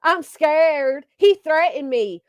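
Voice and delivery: a slow, whiny put-on victim; mock victim voice. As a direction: play the poor scared victim, slowly. Mocking Brittany playing victim.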